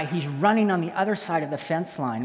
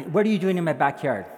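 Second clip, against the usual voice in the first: insistent demand; 4 dB louder than usual. Acted. Repeats the challenge after excuse.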